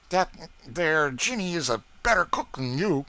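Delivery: put-on high, eager boy's voice; young George voice. A narrator's reading. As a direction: beg hungrily for the cake. George mouth full.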